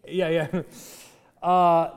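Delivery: ordinary talk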